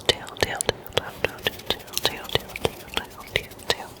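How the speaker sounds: very soft, rapid whispered repeats; fading whispered echo. Real, not acted. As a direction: repeat it like a receding ASMR echo. ASMR trigger word repeated, fading.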